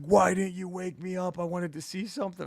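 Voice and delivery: a hint of the pissed-off buddy; mock annoyed buddy. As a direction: play the friend who missed it. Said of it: "He was so pissed".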